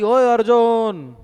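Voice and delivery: drawn-out loud shout of a name; loud call. Retold or imitated. Master shouting again for his servant, slow loud call. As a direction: bellow slowly across the house. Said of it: "फिर दोबारा जोर से आवाज दी".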